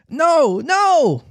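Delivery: high, pleading wail; piteous cry. Acted. Children begging the pirates for mercy, piteous high cry. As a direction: beg piteously, pitched right up. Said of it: "they cried so piteously".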